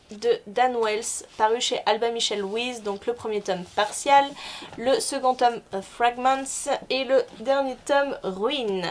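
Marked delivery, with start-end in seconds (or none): 3.8-4.2 title in an English accent. Shown as a demonstration. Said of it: "je le fais avec un accent anglais". 5.8-6.7 English accent. Shown as a demonstration. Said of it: "je le fais avec un accent anglais". 8.2-8.8 English accent. Shown as a demonstration. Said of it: "je le fais avec un accent anglais".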